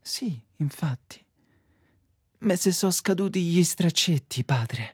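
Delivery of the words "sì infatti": unvoiced whispered aside. Penitent whispering to the priest in confession. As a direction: breathe it like a secret.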